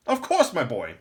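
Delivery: put-on high, loud old man's voice; a knowing old lore master.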